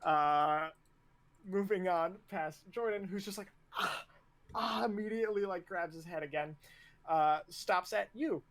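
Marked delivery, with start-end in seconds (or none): 3.8-4.9 short higher cries of pain; pained groan. Acted. Recruit clutching his headbutted head, pained cries. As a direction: let out hurt little ahs.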